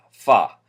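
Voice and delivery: regular hard F. Shown as a demonstration. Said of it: "with a hard F".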